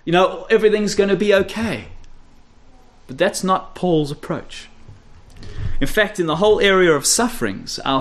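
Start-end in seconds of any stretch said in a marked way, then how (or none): 0.1-1.9 mock breezy. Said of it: "We're supposed to feel our way".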